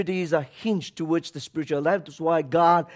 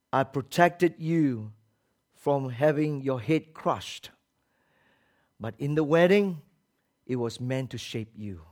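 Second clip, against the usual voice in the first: gentle divine voice; 5 semitones lower, 4 dB quieter than usual. Acted. God's voice answers, slow.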